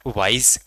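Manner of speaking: वाइज with its first sound made at the front. Shown as a demonstration. Teacher showing students where वाइज starts, front w sound. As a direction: say वाइज with the w formed forward at the lips. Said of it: "आगे से आवाज़ निकल रही है".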